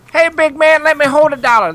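high-pitched mock radio catchphrase; redneck radio catchphrase. Host mimics redneck radio show's big catchphrase, high mocking impression. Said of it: "They're kind of really redneck country".

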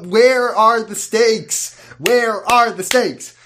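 slow, insistent repeated complaint; mock-outraged repeated question; exasperated. Real, not acted. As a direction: hammer the question home, slowly. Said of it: "repeating complaint mockingly".

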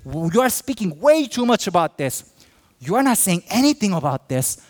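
complaining listener. Retold or imitated. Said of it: "Some of us say".

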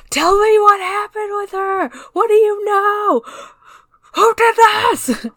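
high, loud, near-screaming interrogation; furious shout. Acted. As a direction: scream the demand at him, desperate. Acting Ram interrogating Subaru.

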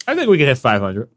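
talking while chewing; words round a mouthful; mouth full. Real, not acted. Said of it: "What are you munching on?".

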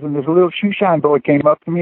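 a hint of a playful trombonist; imitating a buddy. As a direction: tell it as a mischievous bandmate. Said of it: "He says".

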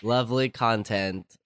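congested, under the weather; sick voice. Real, not acted. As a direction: talk through a cold, ill and tired. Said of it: "of my sick voice".

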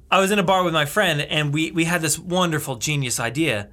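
put-on Aussie storytelling; Australian accent. Telling a friend about the bar prank, put-on Australian accent. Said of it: "today in Australian accent".

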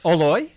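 Oloy, said as yolo reversed, oh-LOY; yolo said backwards. Shown as a demonstration. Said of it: "I'll say it backwards".

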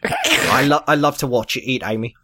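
lightly done British character voice; a hint of British film star; Michael Caine. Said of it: "sounds just like Michael Caine".

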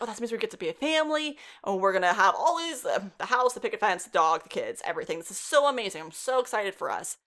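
retold happy gushing; a touch of giddy excitement; excited. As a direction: gush through a list of family dreams, lightly acted. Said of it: "he gets really excited".

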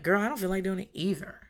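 mild, offhand comeback in own register; commiserating retort. Retold or imitated. Parent answering a balking child, casual commiserating retort. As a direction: lightly imitate a parent agreeing with the complaint.

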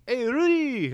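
high, loud greeting holler; calling out. Retold or imitated. Horticulture people hailing the wrong man, loud call. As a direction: hail someone loudly from afar.

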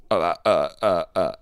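mock stuck "uh" noises, loud and broken; short-circuited stammer. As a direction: imitate a brain jamming on repeated grunts. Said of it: "this sort of a brain short circuit".

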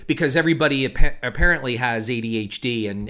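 fast, pushed-out hyped host delivery; rapid YouTuber patter. Shown as a demonstration. Podcaster mimicking the quick-cut YouTube host, fast and hyped. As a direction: rattle it off like a hyper YouTube host. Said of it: "talking like this all the time in quick cuts".

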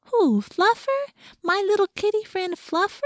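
dote on a sweet kitty; baby talk. Acted. Baby talk about the cat.

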